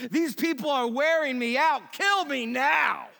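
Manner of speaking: hammed-up despair at the people; exasperated Moses. Moses begging God, fed up with the people. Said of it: "I love this".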